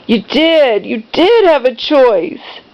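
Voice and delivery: drawn-out, reproachful contradiction; accusing mother. Retold or imitated. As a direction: imitate a mom insisting, leaning on "did". Voices mom contradicting her.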